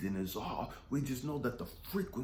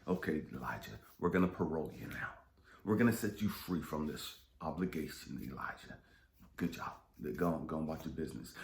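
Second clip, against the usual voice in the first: voice of God; 7 semitones lower, faster than usual. Retold or imitated. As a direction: lightly voice God as calm and dismissive. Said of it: "I wanted God to say".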